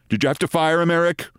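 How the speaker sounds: lightly imitated nasal Long Island voice; a touch of Long Island, through the nose; nasal Long Island accent. Network chairman questioning his executive, nasal Long Island accent. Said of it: "Wright asked in his nasal Long Island accent".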